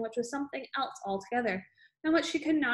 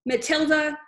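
loud, higher furious shout; roaring name; 4 semitones higher, 5 dB louder than usual. A narrator's reading. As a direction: bellow the girl's name. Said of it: "she roared".

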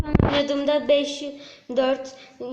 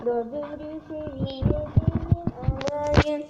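put-on, sing-out boasting voice; gloating taunt; 3 semitones higher than usual. Real, not acted. Gamer boasting to friend about level four, gloating taunt. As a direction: draw it out and rub it in.

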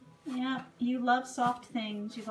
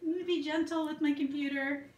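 high, playful voice for the horse, then easing down; voicing the horse; 4 semitones higher than usual. Owner voicing her mare in her office, high playful horse voice. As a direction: speak the mare's thoughts in a bratty high voice. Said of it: "And she is".

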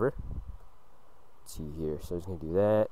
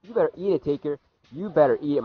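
excited taunt; 6 semitones higher, 3 dB louder than usual. Real, not acted. Taunting the opponent Taker.

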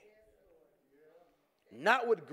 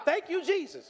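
mock relieved thanks; 8 semitones higher, 3 dB louder than usual. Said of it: "hang up the phone and say".

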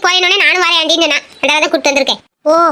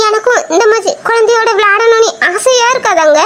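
crying plea. Acted. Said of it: "Kavya, அழாத".

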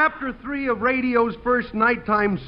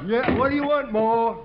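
lightly voiced dim-witted hick, chuckling; Clem the bumpkin; 4 semitones higher than usual. Clem the dim fireman talking to the audience, goofy and cheerful. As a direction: play a goofy rube pleased with himself.

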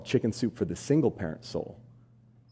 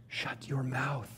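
slow hushed whisper; a stage whisper that lands the joke; 4 semitones higher, 10 dB quieter, much slower than usual. Shown as a demonstration. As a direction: drop to a whisper and draw it out.

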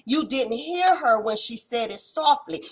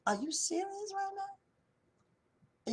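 incredulous; 9 semitones higher, 14 dB quieter, much slower than usual. Acted. Preacher's incredulous repeated question.

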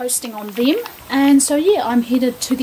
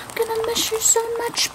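whisper; 12 semitones higher than usual. Real, not acted. Whispered repeat to puppy.

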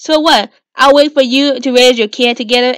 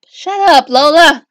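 angry snap; 2 semitones higher, 4 dB louder, slower than usual. Acted. Acted quarrel, snapping at sister.

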